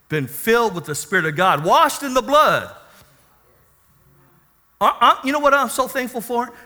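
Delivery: lively, emphatic pulpit delivery; impassioned preaching. Real, not acted. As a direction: preach it with rising energy. Preacher builds in intensity.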